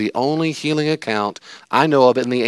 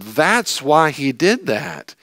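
mock realization; 9 semitones higher, 3 dB louder than usual. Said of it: "to look back after the fact and going".

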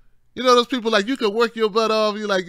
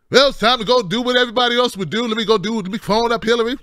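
excited Trump voice; 5 semitones higher, 3 dB louder, faster than usual. Retold or imitated. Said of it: "Trump decided that he".

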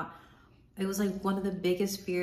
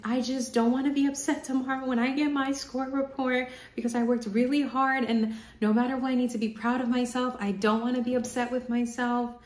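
put-on high, loud crying plea to her boyfriend; tearful plea; 6 semitones higher, 4 dB louder than usual. Retelling in the car to boyfriend Tosin, crying and loud. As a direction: sob it out, pleading with yourself. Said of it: "And, like, crying, like, legit crying".

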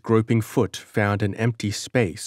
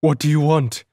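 high, loud frightened squeak; panicked falsetto demand; frightened guard facing the figure, high terrified squeak; 7 semitones higher, 5 dB louder, faster than usual. Acted. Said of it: "he squeaked in a terrified falsetto".

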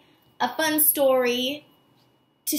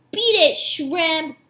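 growling Doberman; 2 semitones higher, 4 dB louder, slower than usual. Acted. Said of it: "growled a Doberman".

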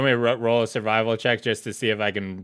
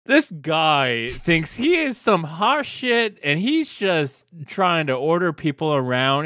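higher, slower indignant rant; 4 semitones higher, slower than usual. Acted. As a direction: rant in offended disbelief. Fergus ranting in character.

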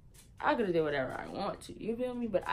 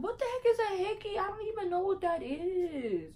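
feigned innocence; 14 semitones higher than usual. Retold or imitated. Retold innocent denial to mom.

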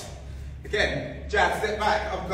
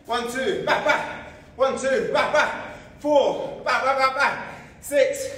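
high, loud, laughing combo calls; excited laughing calls; 4 semitones higher, 3 dB louder, slower than usual. Real, not acted. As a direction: shout the drill through laughter. Fast pad drill, laughing calls.

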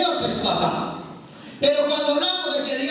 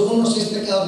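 a touch lower, a mild mimic of the teenager; imitating the neighbour; 3 semitones lower, much faster than usual. Priest mimics how his young neighbour confessed it, lightly. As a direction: echo the boy's sheepish admission. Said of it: "porque él me lo dijo así, con su".

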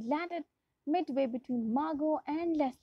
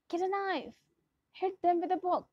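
a read-aloud shout, pitched higher; 6 semitones higher than usual. A narrator's reading. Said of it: "shouted Larry".

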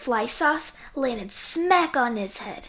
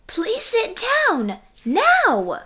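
higher, slow, stern order ending in a loud now!; 1 stern father; 10 semitones higher, 4 dB louder, slower than usual. A narrator's reading. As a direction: build to a firm command. Father scolds Froggy.

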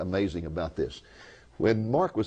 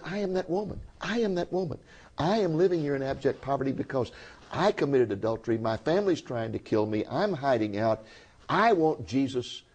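much higher, pleading retold voice of a weeping woman; imitating a sobbing woman's confession, raised pitch; tearful confession; 6 semitones higher than usual. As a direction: voice her tearful plea, high and earnest.

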